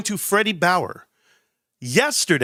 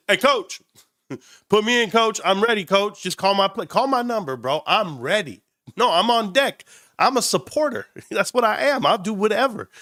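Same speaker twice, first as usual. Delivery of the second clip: eager benchwarmer; 5 semitones higher than usual. Retold or imitated. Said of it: "I was like this".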